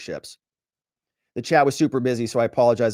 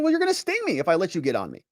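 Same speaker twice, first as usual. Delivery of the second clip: quick, higher-pitched protest; objecting frog; 5 semitones higher, faster than usual. Acted. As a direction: play the frog protesting fast. Voices frog objecting in fable.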